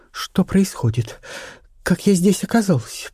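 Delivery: put-on high, shaky frightened young actress; a scared voice waking from a faint; lightly voiced frightened actress; frightened whisper. A narrator's reading. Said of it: "прошептала она".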